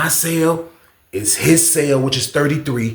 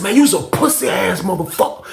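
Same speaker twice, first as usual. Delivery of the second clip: higher, heated cussing through the wall; angry yell; 6 semitones higher than usual. Retold or imitated. Yelling at the neighbor through the wall, angry. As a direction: raise it up, calling him out.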